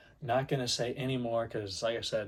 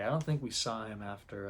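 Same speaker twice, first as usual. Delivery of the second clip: ordinary talk, nothing marked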